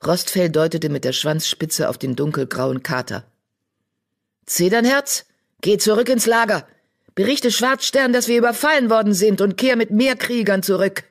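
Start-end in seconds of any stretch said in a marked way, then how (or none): 4.5-11.0 urgent orders. Acted. Deputy orders warrior back.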